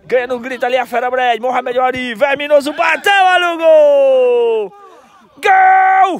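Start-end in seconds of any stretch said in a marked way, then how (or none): 2.1-6.2 shouted goal call, stretched out; explosive goal commentary. Real, not acted. Goal scored in live commentary.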